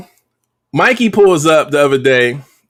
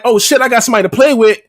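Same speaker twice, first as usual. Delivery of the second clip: quick, slightly raised playful dog voice; excited dog; 5 semitones higher, faster than usual. Acted. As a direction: voice an eager pup finding a playmate. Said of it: "she's barking and she's jumping around like".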